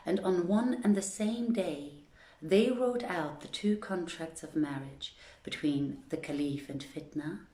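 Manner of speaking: measured storytelling read aloud; calm, even reading of a fairy tale; story narration. Acted. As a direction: tell the old tale to a listening court. Reads Arabian Nights aloud.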